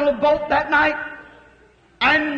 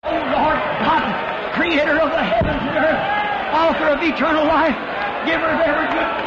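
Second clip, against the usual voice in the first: fervent prayer. Real, not acted. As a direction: stretch out the invocation. Preacher opening a prayer.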